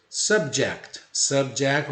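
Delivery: "Subject" with an open "a"-like first vowel; "Subject" with sub pronounced like "sab"; pronunciation model. Shown as a demonstration. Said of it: "som de A com tio".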